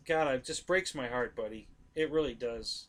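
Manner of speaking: barely getting the words out through tears; choked up. Real, not acted. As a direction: voice breaking on the last words. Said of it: "I'm getting choked up right now".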